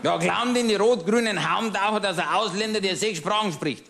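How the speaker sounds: a lightly voiced pub-table know-it-all, chatty and smug; grumbling Bavarian regular. Pub regular ranting to his old friend, smug grumbling. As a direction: play the pub-table ranter holding forth to his friend. Cabaret character monologue.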